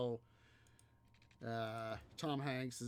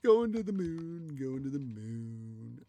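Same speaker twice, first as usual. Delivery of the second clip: thrilled; 7 dB louder than usual. Retold or imitated. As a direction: gush it like a delighted wife. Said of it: "all thrilly".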